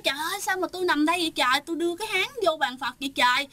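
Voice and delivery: fast, bewildered cry of disbelief; confused exclaiming. Retold or imitated. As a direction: rattle it off, baffled at waking there. Brother wakes confused, exclaims. (giọng hốt hoảng ngạc nhiên, nói nhanh)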